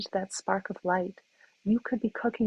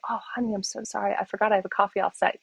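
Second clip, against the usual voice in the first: husband rushing an apology; 3 dB louder, faster than usual. Retold or imitated. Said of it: "my husband says".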